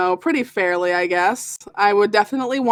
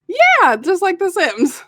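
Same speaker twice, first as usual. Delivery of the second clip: excited; 9 semitones higher, 3 dB louder than usual. Real, not acted. Excited agreement.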